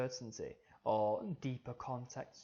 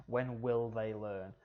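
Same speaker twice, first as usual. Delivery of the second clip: "When will they learn" read slowly with emphasis; slow down and weight "When will they learn"; emphatic stress; slower than usual. Shown as a demonstration. Teacher showing underlining for importance, slow emphatic "When will they learn". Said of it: "you've got that emphasis there".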